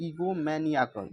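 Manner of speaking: egomaniacal said slowly with clear stress on MA; drawn-out egomaniacal, the syllable MA stressed; stress shown. Shown as a demonstration. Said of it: "stress यहाँ पे दिया गया है".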